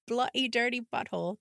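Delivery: badly faked British accent; mock a posh-sounding British curse, badly; terrible British accent. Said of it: "That's a terrible accent".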